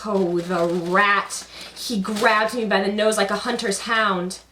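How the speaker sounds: loud, dramatic puppet monologue; Karagos puppet voice. Acted. Puppeteer voicing Karagos to the audience, loud and theatrical. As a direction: ham up the dying puppet's lament.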